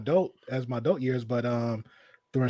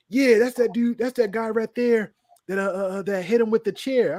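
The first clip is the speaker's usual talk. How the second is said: mock hyped accusation; 5 semitones higher than usual. Kid accusing on bus.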